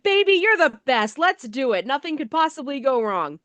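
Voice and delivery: mock eager husband. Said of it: "And he's just like".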